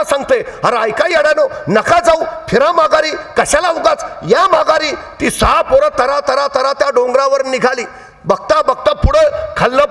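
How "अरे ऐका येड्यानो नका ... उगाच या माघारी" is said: village calling out. Retold or imitated. Villagers shouting to boys climbing the hill, calling out. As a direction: call them back from below.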